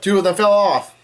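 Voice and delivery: mild, high mock yell; retold yell. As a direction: raise the pitch as if calling out. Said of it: "Luffy yells out".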